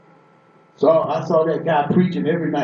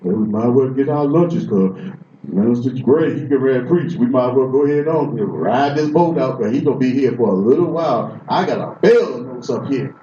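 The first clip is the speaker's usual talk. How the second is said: lower, grumbling churchgoer; bored churchgoer voice; 5 semitones lower than usual. Retold or imitated. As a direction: grumble about the long sermon. Sleepy congregation voiced.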